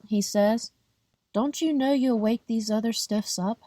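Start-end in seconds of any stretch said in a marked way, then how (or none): 1.3-3.6 night man, pitched higher and annoyed; a hint of a cranky night watchman scolding; irritated night man.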